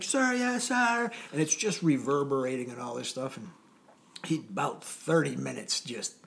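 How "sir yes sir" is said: recruit's shout. Retold or imitated. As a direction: bellow it back like a recruit. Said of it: "I'm like".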